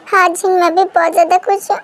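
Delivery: choked up with joy, voice crying; mother crying from happiness; happy tears. Acted. Mother tearfully happy that a bride is coming. Mother sees son's love confessed.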